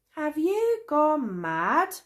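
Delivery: high, slow, incredulous yell; outraged cry at his friend. A narrator's reading. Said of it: "yelled Traveller Fizz".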